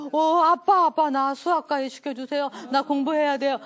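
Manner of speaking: put-on loud, excited kid begging his dad; eager boy. Boy rushing home to beg his dad, excited and loud. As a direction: burst in full of new purpose.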